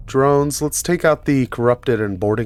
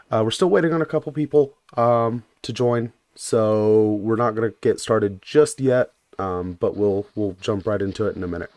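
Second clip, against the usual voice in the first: sore, gravelly throat after illness; rough gravelly voice from being sick. Real, not acted. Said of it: "if I sound a bit gravelly".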